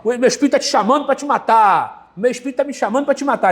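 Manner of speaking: a possessed neighbor yelling over the wall, lightly imitated; mock possessed neighbor. Pastor mimics the possessed neighbor threatening, a touch of a yell. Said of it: "Aí ela começa a gritar".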